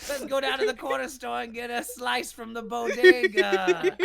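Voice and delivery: put-on New York accent. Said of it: "bad New York accent".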